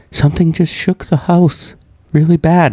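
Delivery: high-pitched mock distress; imitating alarmed caller. Caller reporting the shaken house, high mock alarm. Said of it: "Jess messaged me all of a sudden".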